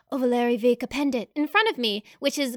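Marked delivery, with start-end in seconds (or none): 0.1-1.3 lightly voiced elf, calm and airy; airy serene elf voice. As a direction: speak Elvish like a serene elf. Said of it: "my Elvish voice sounds totally different".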